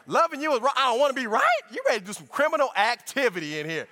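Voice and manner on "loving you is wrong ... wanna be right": mock exasperation. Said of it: "It's like".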